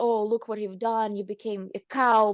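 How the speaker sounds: usual speaking voice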